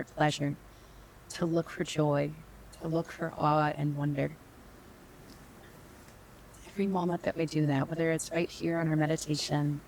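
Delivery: unhurried meditation guide with long pauses; calm, measured meditation teacher; guided meditation. Real, not acted. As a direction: lead them gently inward, leaving space between phrases.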